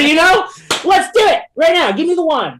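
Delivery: high, loud mock enthusiasm with laughter; sarcastic. Sarcastic reply to critics.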